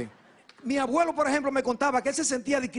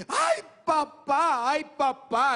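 llanto fingido; 6 semitones higher, much slower than usual. Acted. Hijos llorando en el velorio.

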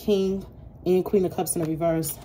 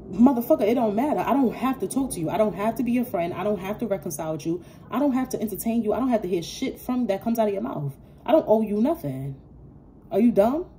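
raised, exasperated telling-off; heated retort; 4 semitones higher than usual. Real, not acted. Reader telling off a pushy rejected person, heated and raised.

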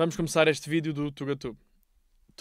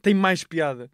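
excited; 3 semitones higher, 5 dB louder than usual. Real, not acted. Enthusiastic praise of streamer.

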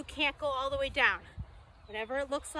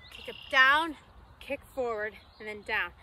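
loud coaching call; 2 semitones lower, 3 dB louder than usual. Real, not acted. Calling moves to fitness class.

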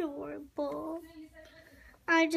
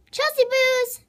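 much higher and louder, calling her name out; 10 semitones higher, 13 dB louder than usual. Real, not acted. Girl shouts her name into the toy bird's recorder.

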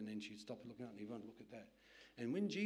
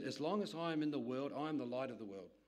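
loud scripture reading; 4 dB louder than usual. Acted. Preacher quotes scripture.

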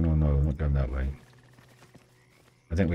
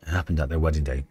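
story narration. Acted. Reads and voices the Dryad.

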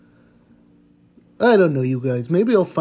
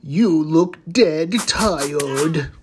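mock villain pun; much slower than usual.

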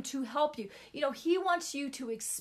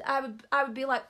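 ordinary delivery

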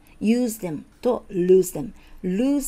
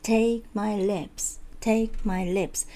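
slow model, "Take" and "lips" long and strong; stress on key words; much slower than usual. Shown as a demonstration. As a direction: lean on "Take" and "lips", keep "my" lighter. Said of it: "強い、". (「Take」と「lips」を強く長く)

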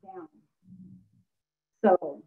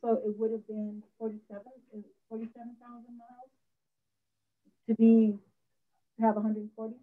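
muffled, hard to hear; 6 dB louder than usual. Real, not acted. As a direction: talk through a hand over the mouth. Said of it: "it's very muffled. I can barely hear you".

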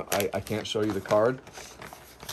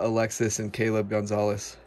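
usual speaking voice

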